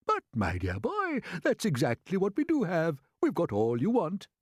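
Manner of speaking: put-on old grasshopper. A narrator's reading.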